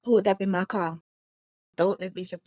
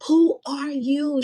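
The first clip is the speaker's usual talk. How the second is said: final demand; 8 semitones higher, 4 dB louder, much slower than usual. Retold or imitated. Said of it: "she said it for that final time".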